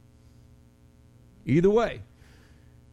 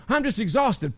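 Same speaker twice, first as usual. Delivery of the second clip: higher, hammed-up "I'm just exhausted" as a whine; mock tired whine; 5 semitones higher than usual. Pastor mocking a tired member's excuse, hammed-up whine. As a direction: poke fun at the weary excuse. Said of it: "I'm being silly".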